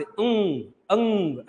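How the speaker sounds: अंग with the ng sound through the nose only; anusvara demo. Shown as a demonstration. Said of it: "केवल कहां से निकलेगा? नाक से".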